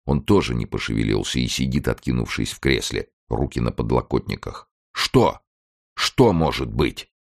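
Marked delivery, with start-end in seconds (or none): 4.9-7.1 sharp, impatient. A narrator's reading. Старик нетерпеливо перебивает женщину, резко и высоко. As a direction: cut her off, impatient to hear. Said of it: "Он говорит резко, нетерпеливо, несколько визгливым голосом".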